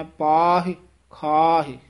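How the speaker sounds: ਪਾਹੇ, ਖਾਹੇ ending in short i, not e; long a, then a light i in ਪਾਹੇ, ਖਾਹੇ; short final i. Shown as a demonstration. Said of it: "ਸਿਹਾਰੀ ਬੋਲਣੀ ਹੈ".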